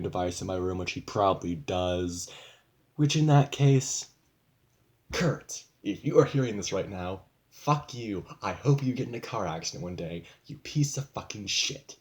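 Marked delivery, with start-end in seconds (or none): 3.0-12.0 angry address. Real, not acted. Addresses stepdad as if listening.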